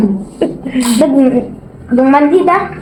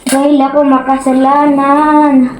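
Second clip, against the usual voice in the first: slow, drawn-out joking prayer; mock prayer; slower than usual. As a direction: pray slowly like in church. Mock prayer during procedure.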